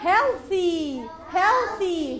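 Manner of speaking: "healthy" loud and clear with a voiceless TH; soft TH. Shown as a demonstration. Teacher contrasting with hard TH, emphatic "healthy" with soft TH. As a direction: model "healthy" with TH unvoiced, like "thin". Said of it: "soft T H".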